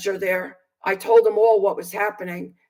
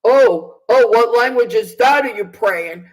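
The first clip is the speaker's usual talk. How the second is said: smart-ass cop; 5 dB louder than usual. Retold or imitated. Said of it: "this smart-ass cop that was standing there said".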